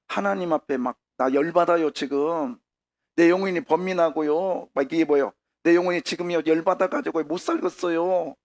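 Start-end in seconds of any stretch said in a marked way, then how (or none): 1.2-4.7 mildly worked-up grumbling to God; lightly acted, heated protest; acted complaint. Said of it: "그러면서 막 불평을 내놓는 거잖아요". 5.6-8.3 somewhat raised, fed-up grumbling; lightly acted exasperation; acted complaint. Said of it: "그러면서 막 불평을 내놓는 거잖아요".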